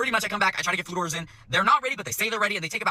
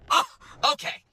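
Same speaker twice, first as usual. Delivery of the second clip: high, mock-offended voice; lofty, affronted scolding; condescending customer; 4 semitones higher than usual. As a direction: imitate a diner accusing someone of playing dumb. Customer's condescending reply, retold.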